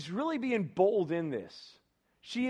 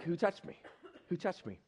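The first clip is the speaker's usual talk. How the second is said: softer, gentler imitation of Jesus; nicer voice; 6 dB quieter than usual. Jesus gently asking the crowd who touched him, in a nicer voice. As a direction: ask it softly, as a kinder Jesus. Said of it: "had a much nicer voice".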